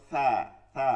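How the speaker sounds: "সা" as a soft lisped th, no whistle; gentle, hiss-free "সা". Shown as a demonstration. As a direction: let "সা" out softly, tongue tip forward. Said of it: "নরম আওয়াজে উচ্চারণ হবে".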